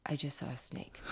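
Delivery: put-on hushed whisper of a scared kid; whispered snake alarm; retold whisper. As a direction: breathe it like a secret. Daughter's line retold as whisper.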